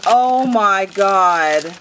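loud, long-drawn astonishment; real stunned outburst; overwhelmed exclamation. Real, not acted. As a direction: draw it out slowly and loudly, stunned. Overwhelmed on unwrapping the gift.

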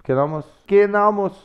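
"Pequeno almoço" squeezed to "k'nalmos"; swallowed vowels. Shown as a demonstration. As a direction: run "Pequeno almoço" together, unstressed vowels dropped. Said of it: "Like the French".

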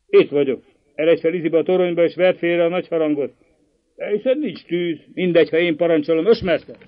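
loud, fast commands to the bell-ringer; brisk order. Acted. Notary ordering the bell-ringer up the tower, loud and fast. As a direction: rap out orders with no room for argument.

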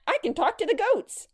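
put-on very high, excited little-girl voice; delighted child. A narrator's reading. Grace finds she can bleat to goats, delighted. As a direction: announce it in giddy delight.

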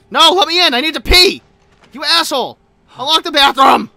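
loud desperate pleading through a door; desperate yelling. Pretend. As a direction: yell like you're about to burst. Pounding on bathroom door, pleading.

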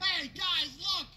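mock him with exaggerated awe. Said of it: "You're mocking me".

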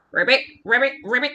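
quick rolled ribbits, rising; frog croaks. Acted. Presenting the frog to the children, frog croaks. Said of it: "our frog".

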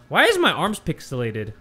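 odd, swooping puzzled question; oddly said question. Real, not acted. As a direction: voice leaps up on the opening, then drops. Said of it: "Why did I say it like that".

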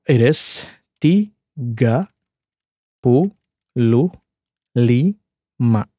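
"tiga puluh lima" slowly, word by word; sounding out words. Shown as a demonstration. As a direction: pause after "tiga" and "puluh". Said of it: "if I break down into syllables".

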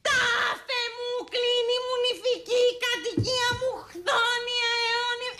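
effortful tragic reading; strained recitation. Shown as a demonstration. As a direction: declaim while straining. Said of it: "Λοιπόν, πάμε, πάμε".

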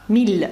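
"міль" with a clearly sounded final l; French pronunciation. Shown as a demonstration. Teacher demonstrating an exception word, French pronunciation. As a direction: say "міль" as French mille, l kept. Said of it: "тут звук Л".

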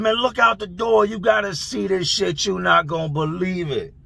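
high, eager acted call; imitated excitement, starting high and easing down; excited urging. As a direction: urge a friend to come see. Cellmates urge him to look.

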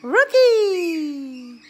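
loud high call with a laugh. Real, not acted. Owner calls her parrot Rocky, loud, high and laughing. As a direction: shout the bird's name to get him talking.

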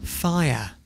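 low, falling one-word command; deadpan low command; firing order. Real, not acted. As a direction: deliver the order after a held pause. Host gives the firing order.

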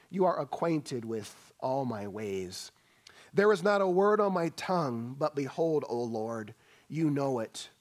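rolling preacher's reading of a psalm; scripture reading. Acted. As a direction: proclaim the verses with weight. Preacher reads psalm aloud.

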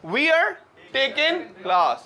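high wear, taking without g; British-style blend. Shown as a demonstration. Teacher shows how the British say it. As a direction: glide we are into wear. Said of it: "कैसे बोलते हैं".

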